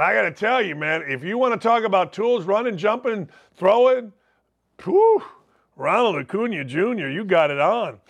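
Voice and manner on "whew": amazed whistle. Real, not acted. Awe at his tools.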